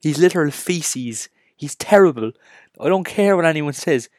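slow, loud, high put-on rant voice; slow exaggerated rascal-scolding voice; mock rant. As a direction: ham up a scolding rant at the fans. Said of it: "And I'm like".

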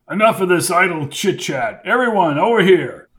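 big, commanding call to the crowd; booming voice. A narrator's reading. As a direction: boom it out like a host. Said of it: "said Hamilton Fletcher in a booming voice".

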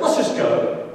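high, loud frustrated order; retold frustration. Frustrated husband to dancing wife, exasperated outburst. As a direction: burst out high and loud, fed up. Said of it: "I got frustrated with her".

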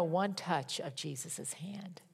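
slow, hushed whisper; a slow reverent whisper; awed whisper. Real, not acted. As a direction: whisper it in awe. Tender aside to congregation.

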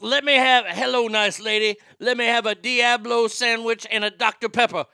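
loud, high mock redneck order; hammed-up rude customer yelling for his sandwich; mocking impression.

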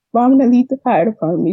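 retold indignant objection. Woman retelling her challenge to her boyfriend, indignant.

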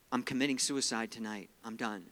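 understated imitation of someone giving up, voice dropping away; retold despair. Friend phones to say she is done, understated despair.

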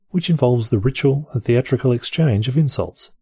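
normal talking voice

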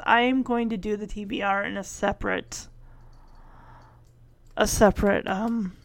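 dry-mouthed, worn-out voice; talking with a dry mouth. Real, not acted. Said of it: "My mouth is so dry".

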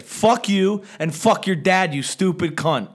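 retold loud insult. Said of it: "I said cunt so loud".

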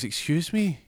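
indignant disbelief; startled excuse me. Acted. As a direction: Arjaf reacts to the racist rant. Arjaf offended.

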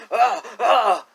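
exaggerated "ah" noises; imitated wrestler grunts. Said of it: "the way that the guy does it".

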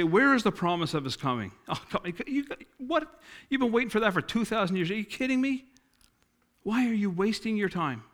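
high, sneering mock voice, lifting on the questions; a preacher mimicking the mockers, high and scornful; mocking scoffers. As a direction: scoff at the believers in a high taunting voice. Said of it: "That's the way they talk".

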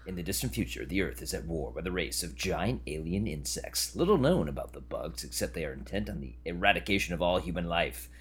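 deep dramatic trailer narration; old sci-fi announcer. Retold or imitated. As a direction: read it like an old movie trailer. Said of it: "that movie's fun".

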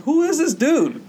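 high, loud, drawn-out question; incredulous squeal, acted out for laughs; retold bewilderment. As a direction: stretch it out in high-pitched disbelief. Retold bewilderment at clingy stranger.

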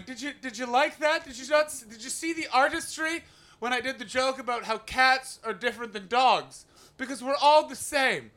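hammed-up fishing for praise; needy comedian. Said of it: "we are just sat in a room going".

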